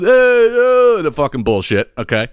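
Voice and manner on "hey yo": high, drawn-out holler; mock screaming at window. Man on the sidewalk calls up to the balcony, high mock holler. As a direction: imitate a guy hollering up to a balcony. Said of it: "Fucking screaming at the window".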